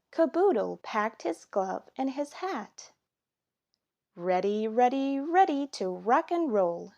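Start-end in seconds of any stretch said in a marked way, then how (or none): 4.1-6.9 building cheer, louder each ready; eager Daddy. Acted. Daddy rallying the boys before baseball, building excitement. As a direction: pump it up like an excited dad. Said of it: "said Daddy".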